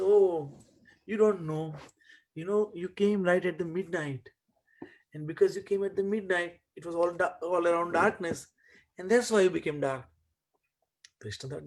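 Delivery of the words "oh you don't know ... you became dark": higher, louder, coaxing mother voice; a mother talking a tearful child round; soothing mother. Acted. Yashoda reassures crying Krishna, high and coaxing. Mother comforts son in story.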